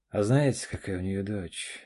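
dreamy smile. Acted. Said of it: "с мечтательной улыбкой".

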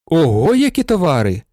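a moderate, pleased exclamation at the goods; impressed outburst, not a full shout; lightly voiced exclaim of delight. A narrator's reading. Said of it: "вигукнув Вокульський".

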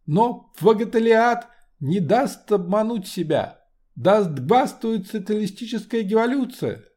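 товарищи, Кегенским, гластвует with throaty uvular r in high orator voice; fiery rally speech burring every r; guttural French r. Acted. Lenin's speech, r burred.

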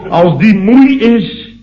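high, slow put-on voice; mock wife voice. Husband imitating his wife to a colleague, high and slow. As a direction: mimic the wife's tired whine.

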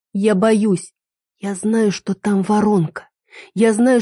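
plain reading voice

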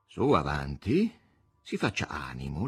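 slow, soft encouragement; encouraging. Acted. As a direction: coax her gently forward. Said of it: "l'incoraggiò". (incoraggiando, lento e dolce)

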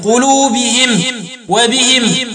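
"قلوبهم" and "وبهم" ending in -him; i after h, stop on m in "قلوبهم" and "وبهم"; kasr ha, still mim. Shown as a demonstration. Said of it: "وقرأوا بإسكان الميم وكسر الهاء وقفا".

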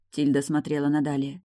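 plain reading voice

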